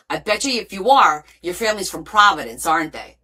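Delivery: usual speaking voice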